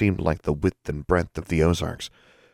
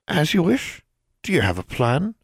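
tiny elf voice; 11 semitones higher than usual. Acted. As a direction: squeak it from inside a rock.

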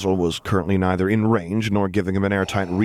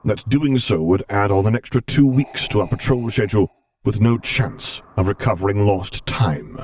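angry growl; 2 semitones higher, 4 dB louder than usual. Acted. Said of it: "he growled loudly".

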